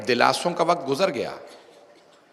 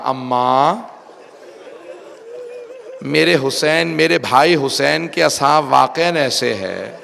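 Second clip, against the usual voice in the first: retold tearful lament. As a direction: lament it as the grieving sister. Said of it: "رو کے کہا". (روتے ہوئے فریاد کی نقل)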